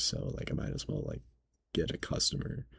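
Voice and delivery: soft breathy trailing off; muttered excuse. Retold or imitated. Manager excusing himself to the cashier, muttered. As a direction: mumble it half-sheepishly. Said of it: "Ben goes".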